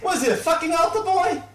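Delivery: very high, loud mocking crone; hag voice. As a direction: jeer like a crude old hag.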